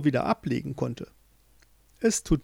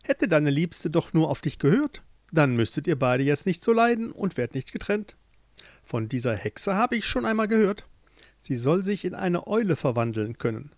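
sympathetic queen; 3 semitones higher than usual. Acted.

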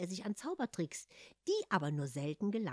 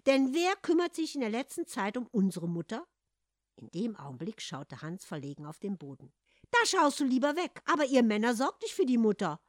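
loud, high rebuke; arguing back; 5 semitones higher, 5 dB louder than usual. Acted. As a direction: put him in his place. Sister argues back.

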